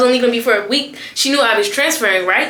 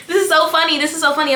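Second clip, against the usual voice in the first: amused classmate; 5 semitones higher, faster than usual. Retold or imitated. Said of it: "She's steady laughing at her phone".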